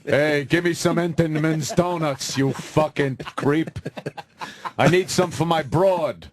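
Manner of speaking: lightly voiced swaggering crooner ordering at a bakery; a hint of a brash old-time star, amused; Frank Sinatra. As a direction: play a pushy celebrity customer, lightly. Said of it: "Frank Sinatra was a weekly customer".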